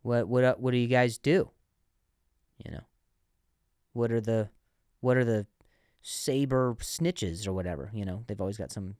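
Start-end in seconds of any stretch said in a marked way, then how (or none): 0.0-7.9 put-on old man voice. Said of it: "the guy says".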